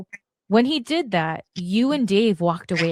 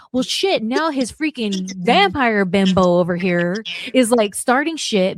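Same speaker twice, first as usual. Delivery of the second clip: imagined boss grumble. Retold or imitated. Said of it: "he's probably thinking".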